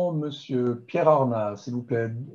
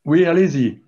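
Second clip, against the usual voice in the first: louder, for a bad line; to someone hard of hearing; 3 semitones higher, 7 dB louder than usual. Real, not acted. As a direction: speak up so they hear. Answering a faint caller.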